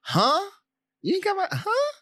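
high, loud incredulous huh; indignant huh. Retold or imitated. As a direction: act like you misheard on purpose. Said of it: "and I'll go".

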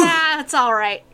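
boisterous skipper shrugging it off; hearty sea captain. Acted. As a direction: brush it off with a big captain's voice. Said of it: "and he says".

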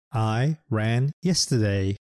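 said slowly and clearly; slow classroom example; slow practice sentence. Shown as a demonstration. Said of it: "センテンスで練習しましょう".

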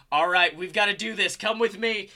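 lightly acted call to action; urgent rallying. Atticus urging riders to follow him out, urgent rallying.

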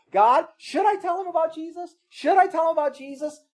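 anxious prayer. Retold or imitated. Voicing a nervous believer's prayer.

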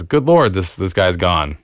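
a touch of mock surprise; lightly shocked exclamation. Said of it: "shocked and says".

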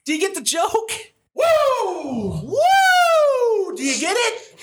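very high, goofy badgering with whoops; mock hype shout. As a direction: squeal the question, whooping between tries. Pushing the joke with whoops.

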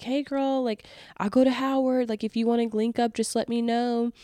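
imitating her friend's sweet invite. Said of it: "she's like".

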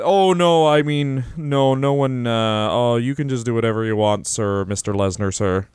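groveling to Lesnar. Retold or imitated. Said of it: "Brock Lesnar is the, the".

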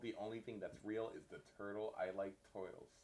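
deep conspiracy voice. Pretend. Conspiracy joke voice.

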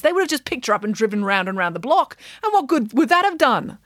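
high, scoffing storyteller pig; Nanny Piggins voice. Acted. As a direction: dismiss the idea grandly.

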